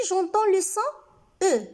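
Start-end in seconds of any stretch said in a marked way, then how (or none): 1.4-1.7 "E" as a closed, rounded ø. Shown as a demonstration. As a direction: say "E" as the eu in nœud. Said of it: "fermé".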